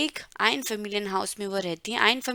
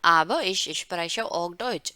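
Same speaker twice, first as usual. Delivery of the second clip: slow model reading; 3 semitones lower, much slower than usual. Shown as a demonstration. Teacher rereading Elena's German line slowly. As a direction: read very slowly, word by word. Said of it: "repeated model sentence".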